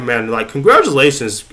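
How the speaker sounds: usual speaking voice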